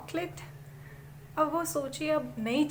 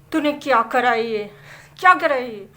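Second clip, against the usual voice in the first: mother yelling, louder on each question; angry shout; 9 dB louder than usual. Acted. Furious mother yells at son covered in lipstick. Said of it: "mummy एकदम से चिल्लाई".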